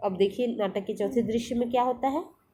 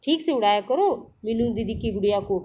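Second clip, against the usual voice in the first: affectionate scolding; 2 semitones higher than usual. Acted. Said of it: "प्यार से डांटते हुए कहा".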